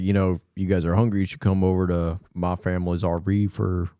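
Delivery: put-on RV driver in a thick drawling accent. Host quoting the RV driver's invitation, thick accent. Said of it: "gave him such a thick accent".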